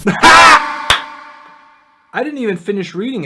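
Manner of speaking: loud, slow, laugh-filled words; words pushed out between laughs; laughing while talking. Real, not acted. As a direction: talk through the giggles. Laughing while reading meme.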